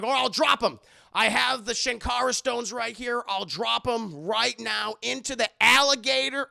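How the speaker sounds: hammed-up hero threat; mock threat. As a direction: shout the threat across the gorge. Indy threatens loudly.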